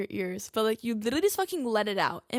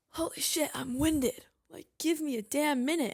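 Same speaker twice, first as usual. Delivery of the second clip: exasperated self-quote; 5 semitones higher than usual. Retold or imitated. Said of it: "I'm like".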